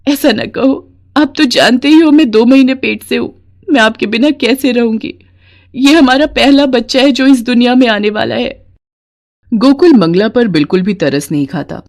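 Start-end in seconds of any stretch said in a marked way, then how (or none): 0.1-8.6 a mildly tearful wife begging him to stay, pitched higher; pleading wife. Acted. Mangla begging Gokul not to leave her, lightly tearful. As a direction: beg your husband not to leave.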